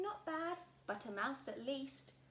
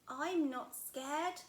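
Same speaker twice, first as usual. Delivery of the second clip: put-on louder, very slow insisting child; brave little Gruffalo; 4 semitones higher, 8 dB louder, much slower than usual. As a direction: brave words said very slowly to herself.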